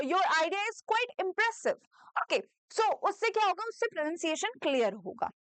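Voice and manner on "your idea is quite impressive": each word slow and clear for repeating; slow model sentence. Shown as a demonstration. A teacher modeling slowly for students. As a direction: say it slowly so students can copy. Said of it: "आप मेरे बाद में इसको".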